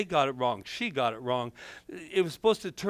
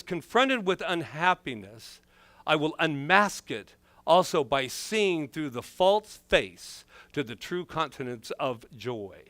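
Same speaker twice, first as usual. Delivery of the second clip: Baptist preacher. Acted. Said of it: "why I sound like a Baptist preacher today".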